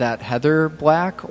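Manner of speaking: mock Heather accent. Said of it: "was it like that".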